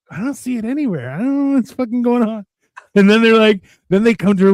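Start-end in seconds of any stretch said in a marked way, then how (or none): 0.1-2.5 baffled alien voice. Retold or imitated.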